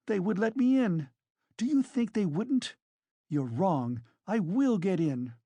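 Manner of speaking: high-pitched, agitated woman; indignant, overwrought challenge; frenzied tirade. A narrator's reading. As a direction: rail at the accusers in defiant outrage. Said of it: "in a frenzy".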